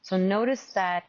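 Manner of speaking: measured meditation guide with long pauses; guided meditation. Real, not acted. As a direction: gently guide them into open awareness.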